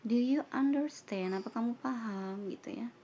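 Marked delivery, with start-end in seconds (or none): 0.0-1.3 teacher question. Shown as a demonstration. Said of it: "pasti nanyanya".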